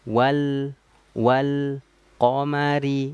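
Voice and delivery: "wal, wal, qamari" with a break after each "wal"; wrong broken reading. Shown as a demonstration. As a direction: stop after "wal" before joining "qamari". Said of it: "Jadi jangan bacanya gini".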